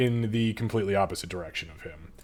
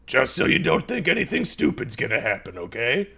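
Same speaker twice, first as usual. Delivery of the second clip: menacing NPC voice; 3 semitones higher than usual. Acted. NPC warns holding sword.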